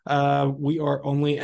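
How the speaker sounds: hoarse, strained voice giving out; losing my voice. Real, not acted. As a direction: talk through a voice that's going hoarse. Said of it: "sorry, I'm losing my voice".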